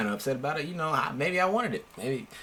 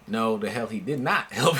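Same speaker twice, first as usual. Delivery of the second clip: laughing denial; 3 semitones lower than usual. Retold or imitated. Denying to friend's dad.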